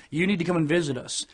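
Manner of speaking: quick, offhand delivery, stress on "need"; weak vague take. Shown as a demonstration. Pointing vaguely at the camera, a rushed throwaway line. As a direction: toss off "You need to come and visit us" quickly. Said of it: "in the general direction of the camera like this".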